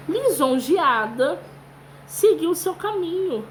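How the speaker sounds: put-on lively storytelling for children; story reading. Teacher reading a butterfly story to her class, storytelling voice. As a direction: read the fable to little kids.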